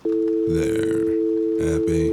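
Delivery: loud sarcastic snap; irritated snap. Acted. To the gunman after hanging up, loud irritated snap. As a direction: throw it back at him.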